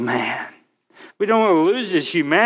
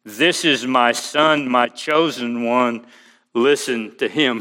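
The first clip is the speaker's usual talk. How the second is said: voice of God the Father; 3 semitones lower than usual. Acted. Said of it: "a voice came out of the cloud saying".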